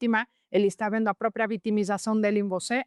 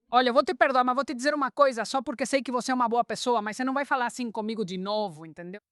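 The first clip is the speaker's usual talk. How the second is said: higher-pitched, forceful forgiveness with a warning; forceful words; 3 semitones higher than usual. Shown as a demonstration. Coached wife standing up to her shouting husband, forceful. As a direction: start high and punchy, lay down the limit, ease off at the end. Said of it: "usando palavras fortes".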